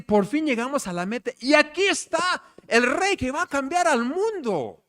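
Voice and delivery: the finally-there relief of tired travelers; weary magi arriving. Retold or imitated. The magi reaching the king, announcing arrival with elation. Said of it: "pero llegan y dicen".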